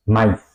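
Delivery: maíz said as one gliding syllable, mais; German diphthong. Shown as a demonstration. Teacher showing the German joined vowels, one syllable. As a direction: glide the A into the I in maíz. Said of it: "pronunciar la A y la I juntos".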